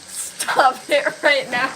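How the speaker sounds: giggling plea. Real, not acted. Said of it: "I just start laughing at everything".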